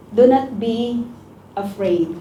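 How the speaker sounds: ordinary talk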